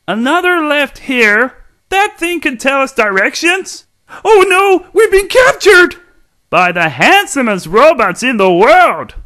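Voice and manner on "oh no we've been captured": higher, louder mock alarm; theatrical cry of capture; hammed-up panic. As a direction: play it up as fake fright. Mock panic before a punchline.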